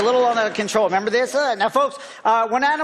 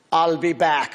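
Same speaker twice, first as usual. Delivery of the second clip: lightly voiced action-movie strongman, lower; a hint of the Terminator, dropped lower; Arnold Schwarzenegger; 4 semitones lower than usual. Ventriloquist's bird does a lightly mock, lower Schwarzenegger. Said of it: "it's Arnold Schwarzenegger".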